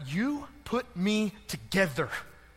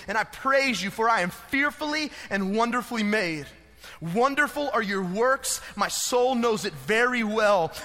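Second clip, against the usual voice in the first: scripture reading. Acted. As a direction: read the psalm like a prayer. Scripture reading over music.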